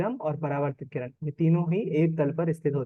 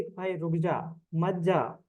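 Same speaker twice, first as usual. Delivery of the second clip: "रुक जा", a clear break, then "मत जा"; pause before मत जा; much slower than usual. Acted. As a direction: stop someone: "रुक जा", pause, "मत जा". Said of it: "किसी से जब बोल रहा है". ("रुक जा" पर ठहरकर अलग से "मत जा")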